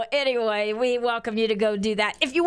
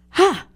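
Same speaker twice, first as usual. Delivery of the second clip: relieved huff; 7 semitones higher, 7 dB louder than usual. Real, not acted. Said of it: "I got all that out".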